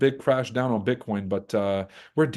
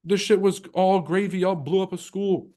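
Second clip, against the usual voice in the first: high indignant mock voice; mock outrage; 8 semitones higher than usual. Locals scolding America for bombing them, high indignant voice. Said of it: "They're like".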